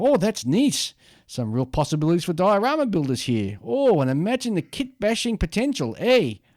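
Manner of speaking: put-on, attempted Canadian accent. Describing how a model kit maker reacts to new kits, trying a Canadian accent. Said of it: "trying to do a Canadian accent".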